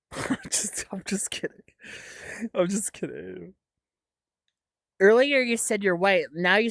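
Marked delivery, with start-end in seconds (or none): 0.1-3.5 very soft, half-whispered aside; quiet, whispery admission of joking; hushed backpedal. Real, not acted. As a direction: take it back under your breath. Backing off her own teasing.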